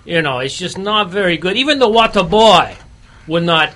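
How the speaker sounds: hammed-up Louisiana bayou accent; put-on Cajun accent. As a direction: play a Cajun gator hunter, accent laid on thick. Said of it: "I still don't know whether it's Cajun".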